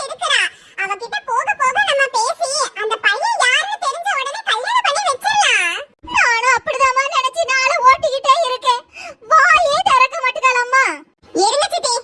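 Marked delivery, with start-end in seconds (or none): 6.1-10.8 mother weeping to her niece; crying. Acted. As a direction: despair through tears. Mother weeps about silent daughter.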